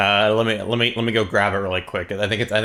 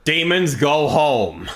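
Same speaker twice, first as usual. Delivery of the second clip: mock command; 5 semitones higher, 4 dB louder, slower than usual. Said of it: "It's like".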